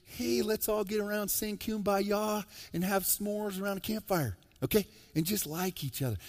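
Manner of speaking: lampoon the campfire idea of love, softly; mocking singsong. Pastor mocks feel-good love to his congregation, mock singsong.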